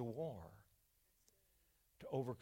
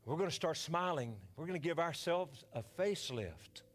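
leading the church in prayer. Acted. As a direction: pray over the congregation, then rise. Leads a prayer.

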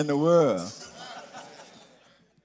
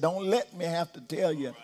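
voice of God. Retold or imitated. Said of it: "the voice of God saying the same thing Daddy said".

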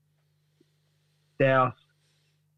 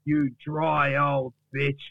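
offended Duck; 2 semitones higher than usual. Acted. Duck rejects Gary's dry ice advice, offended retort. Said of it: "And then Duck says".

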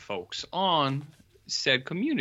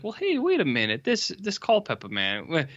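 sudden suspicion; 5 semitones higher than usual. Retold or imitated. Characters grow suspicious.

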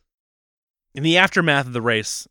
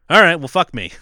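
frustrated outburst; 5 semitones higher, 10 dB louder than usual. Retold or imitated. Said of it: "he's like".

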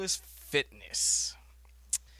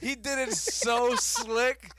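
laughing; 7 semitones higher, 4 dB louder, slower than usual. Real, not acted. Still laughing after the prank.

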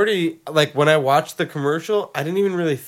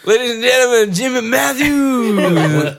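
announcer voice; 8 semitones higher, 5 dB louder than usual. Pretend. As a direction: introduce the band like an MC. Announcing fake band.

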